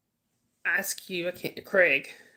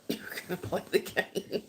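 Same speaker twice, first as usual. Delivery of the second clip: whisper; 8 dB quieter than usual. Real, not acted. Whispered aside with a laugh.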